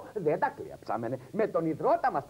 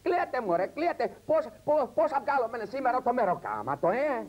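put-on yelling at the kids; 7 semitones higher than usual. Mother on a TV show yelling at her kids to cry. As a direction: shout them into crying.

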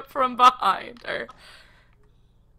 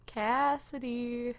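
drawn-out, softer call of the name; slow, quieter teasing call to someone hiding; taunting call; 2 semitones higher, 5 dB quieter, slower than usual. Pretend.

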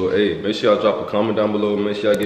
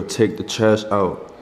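slow, emphatic order; much slower than usual. Retold or imitated. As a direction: Take the trash out, each word slow and separate. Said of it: "I told this girl".

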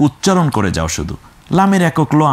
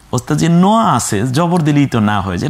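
higher, fast eager pupil; student's answer; 3 semitones higher, faster than usual. Pretend. Teacher plays a pupil answering, quick and high. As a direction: blurt the answer like a keen student.

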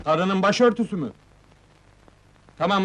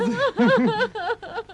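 high, drawn-out wail; loud bawling; 14 semitones higher than usual. Acted. Woman told to stop bawling, noisy wailing. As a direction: blubber noisily in voiced sobs. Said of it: "Zırlama kız!".

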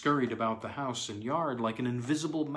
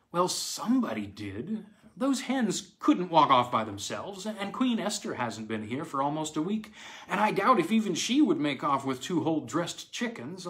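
lightly voiced woman, a touch of irritation; a hint of a puzzled, vexed housewife; annoyed young stepmother; 5 semitones higher, 4 dB louder than usual. Aileen voiced, annoyed at loss.

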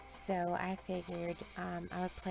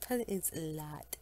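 whispering; 2 semitones lower than usual. Real, not acted. Late night, stepdad asleep.

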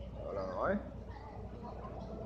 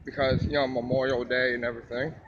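talking while crunching popcorn; chewing popcorn mid-sentence; mouth full; 6 semitones lower than usual. Real, not acted. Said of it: "Sorry about the crunching".

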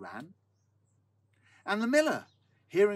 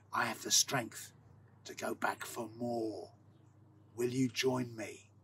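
slow, drawn-out call, sinking lower; crying out; 3 semitones lower than usual. A narrator's reading. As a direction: hail someone through a door, taking your time. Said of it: "and cried out".

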